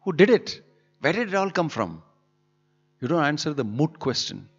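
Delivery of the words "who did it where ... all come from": asking God. Retold or imitated. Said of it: "why don't you just say".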